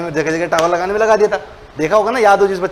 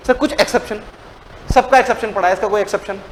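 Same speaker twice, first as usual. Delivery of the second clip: student's plea. Acted. Voices students asking for an exception.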